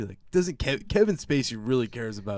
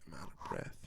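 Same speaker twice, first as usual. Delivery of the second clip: mock winded; 8 semitones lower, 13 dB quieter, faster than usual. Mocking the actress after three punches.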